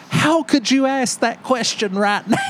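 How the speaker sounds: high-pitched, exasperated mock yell; incredulous outburst, retold for laughs. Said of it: "And I yelled".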